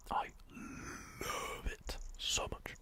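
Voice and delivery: slow, stretched whisper; drawn out. Real, not acted. Whispering to viewers, oddly drawn-out and slow. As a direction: draw the words out lazily. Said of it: "I don't know why I said it like that".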